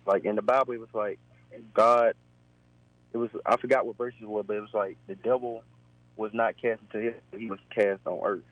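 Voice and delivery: over the phone line; thin call-in phone sound; radio caller. Real, not acted.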